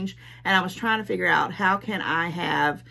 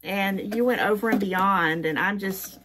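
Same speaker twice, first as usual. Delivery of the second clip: halting, with searching pauses; lost for words; 3 semitones higher than usual. Real, not acted. Gift receiver thanking a friend, touched and lost for words. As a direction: stall and restart, genuinely touched. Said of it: "this is me being a loss for words".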